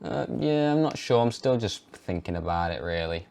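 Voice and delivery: unsure mumble. Retold or imitated. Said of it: "I just say".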